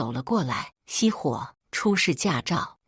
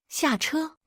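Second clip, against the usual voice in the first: sharp pitched-up order of a traffic cop; loud command; 10 semitones higher than usual. A narrator's reading. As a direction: bark the order to get out. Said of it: "交警大声命令道".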